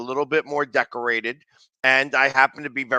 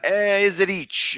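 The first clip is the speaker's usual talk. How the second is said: lightly mimicked fan, higher and slow; imitated fan; 5 semitones higher, slower than usual. Host repeating the unclear word for the guest, lightly imitated and drawn out. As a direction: slowly imitate the garbled call, pitched up a little. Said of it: "he says a word".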